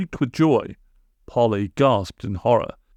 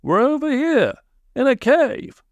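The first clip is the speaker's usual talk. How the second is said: calling out. A narrator's reading. Calling out to the spirit.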